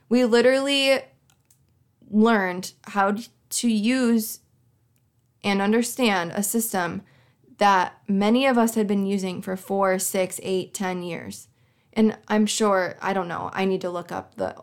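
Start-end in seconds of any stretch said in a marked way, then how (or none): 0.1-11.5 sarcastic. Real, not acted. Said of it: "the fucking sarcasm and dramatics in my voice".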